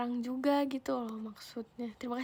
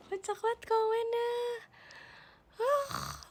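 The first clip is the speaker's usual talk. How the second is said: squealing high with laughter; shrieking with laughter at a funny comment; 11 semitones higher, 6 dB louder than usual. Real, not acted.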